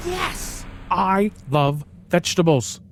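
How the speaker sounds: high, gleeful exclamation; delighted. A narrator's reading. Bunny celebrating its treat, gleeful. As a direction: cheer for food.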